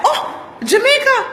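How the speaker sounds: high, loud delighted "Oh, Jamaica"; excited exclaim. Retold or imitated. Man taking a photo for a stranger, delighted. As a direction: squeal it like sudden recognition.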